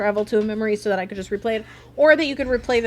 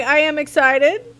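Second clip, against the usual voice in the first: high, loud, excited; 6 semitones higher, 8 dB louder than usual. Shown as a demonstration. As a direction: burst out with excitement. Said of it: "I'm like".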